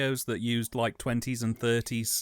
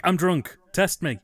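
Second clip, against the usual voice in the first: put-on loud drunk claim; 2 semitones higher, 5 dB louder, slower than usual. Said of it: "you're like".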